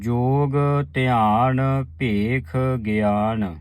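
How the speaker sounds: ਜੋਗ ਧਿਆਨ ਭੇਖ ਗਿਆਨ drawn out slowly, pausing at ਗਿਆਨ; slow recitation. Shown as a demonstration. Teacher showing the sangat where to pause at ਗਿਆਨ. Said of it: "ਗਿਆਨ ਤੇ ਸੰਗਤ ਜੀ ਵਿਸਰਾਮ ਹੈ".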